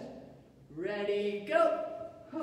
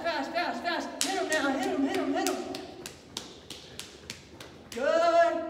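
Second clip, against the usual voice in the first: high, loud fired-up urging; pumped-up coach; 5 semitones higher, 3 dB louder, faster than usual. Real, not acted. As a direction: hype them up to go faster.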